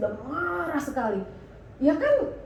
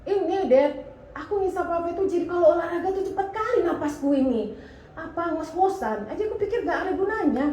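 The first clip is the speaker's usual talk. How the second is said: anak menjelaskan dengan santai; 6 semitones higher, 3 dB louder than usual. Retold or imitated. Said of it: "Kenapa kau berhenti?".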